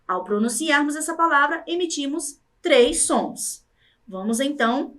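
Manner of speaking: ordinary talk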